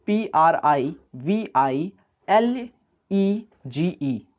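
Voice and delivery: letters spaced out slowly; slow spelling. Shown as a demonstration. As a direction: dictate each letter. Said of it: "spelling a word aloud". (धीरे-धीरे अक्षर बोलना)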